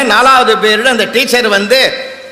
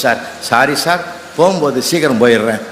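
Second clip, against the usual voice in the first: low, gentle apologetic voice with a laugh; meek apology; 7 semitones lower than usual. Retold or imitated. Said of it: "அன்பா சொல்லிச்சு". (பணிவான மென்மையான மன்னிப்பு)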